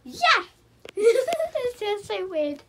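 high, drawn-out giggly voice; real embarrassed giggle, high-pitched; giggling. Real, not acted. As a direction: laugh through the words. Giggles while starting the recording.

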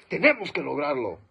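loud, rallying declaration; rousing call. Shown as a demonstration. Orator to audience, a loud rallying call. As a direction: rouse the crowd with it. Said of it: "Suena revolucionario".

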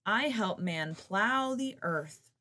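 slow, loud bellow. Acted. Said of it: "bellowed the ox".

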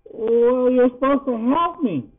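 high-pitched little plea; small voice. A narrator's reading. Poppy asking Yarif for help, in a small voice. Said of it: "Poppy said in a small voice".

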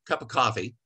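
bare, unadorned coffee order; curt order. Shown as a demonstration. Customer ordering coffee without a greeting, curt. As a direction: order without any courtesy. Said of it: "If you walk in and say".

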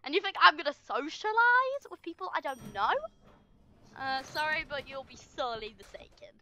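snippy, passive-aggressive put-down. Real, not acted. Player refusing to socialise with strangers, passive-aggressive. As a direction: tell them off with passive-aggressive politeness. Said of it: "I sounded so passive-aggressive".

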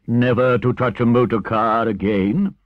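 scandalized, insistent questioning; stern Badger. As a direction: press him for the promise. Badger challenges Toad.

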